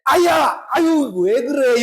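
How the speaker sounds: sharp yelp of pain, then snapping at them; angry outburst. Retold or imitated. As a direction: cry out and lash back. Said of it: "이렇게 딱 나오면 실수한다는 거예요". (아파서 버럭 소리치며 짜증내기)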